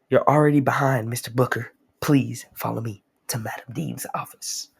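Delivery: lightly voiced robot summons; formal, lightly put-on assistant voice; robot announcer. Voicing the robot diamond's summons.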